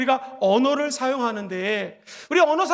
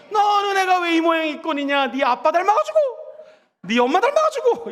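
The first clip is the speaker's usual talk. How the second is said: put-on loud, higher scolding of a child; scolding parent; 4 semitones higher, 3 dB louder than usual. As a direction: scold the child, rising to a yell. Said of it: "이러시면 안 되고요".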